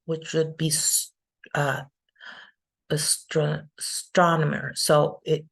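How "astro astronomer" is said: "astronomer" broken off, then said whole with second syllable stressed. Shown as a demonstration. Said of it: "stress goes in the second syllable".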